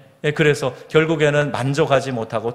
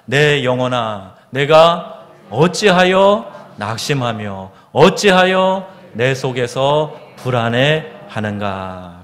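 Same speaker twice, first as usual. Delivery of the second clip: slow, measured psalm recitation; scripture recitation; 3 dB louder, slower than usual. Acted. Preacher reciting the psalmist's confession, slow solemn recitation. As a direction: stretch the phrases of the lament.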